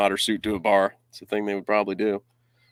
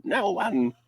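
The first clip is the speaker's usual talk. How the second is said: laughing villain voice; 10 semitones higher, 5 dB louder, much slower than usual. Acted. Continues villain bit, laughing.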